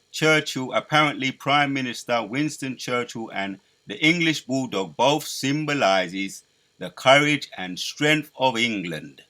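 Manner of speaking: orate like Churchill rallying the nation; Churchill impression. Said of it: "I'm even mocking his, his accent".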